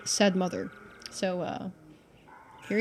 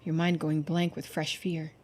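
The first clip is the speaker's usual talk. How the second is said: story narration; 4 dB louder than usual. A narrator's reading. Streamer narrating the search for the witch, tense storytelling. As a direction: lively narrator read.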